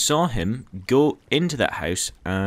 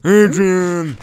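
high, loud, drawn-out cry; calling out; 7 semitones higher, 9 dB louder than usual. Pretend. Player crying out a name mid-game, loud high call. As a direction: holler the name long.

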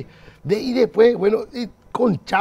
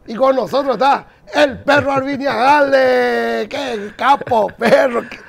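excited; 5 semitones higher, 4 dB louder, slower than usual. Real, not acted. Host hypes guest's arrival.

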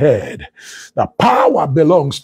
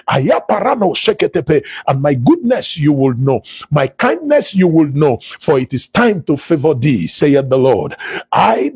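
declaiming the Lord's words in a steady, rolling preacher's cadence; prophetic preaching. Acted. Preacher prophesying to online listeners, solemn and declaiming. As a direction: proclaim it as a prophet over the congregation.

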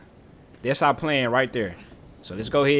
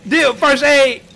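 panicked laughing shout; 11 semitones higher, 6 dB louder, much slower than usual. Real, not acted. Laughing panic during boss fight.

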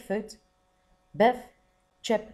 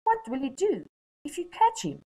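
put-on high, curious girl's voice; girl's worried question; 12 semitones higher, 3 dB louder than usual. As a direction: ask it like a concerned child. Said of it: "Biff asked Buncombe".

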